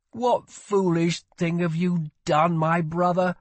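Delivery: reproachful younger-royal voice; reproachful prince. A narrator's reading. Prince confronts his brother over scar.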